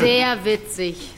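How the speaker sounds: slow, flat deadpan put-down; drawn out, unimpressed; dry sarcasm. Acted. Teacher dryly shuts down the class clown, slow and deadpan.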